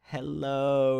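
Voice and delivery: slow, dazed stoned voice. Retold or imitated. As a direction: sound baked and out of it. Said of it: "in, like, a really stoned voice".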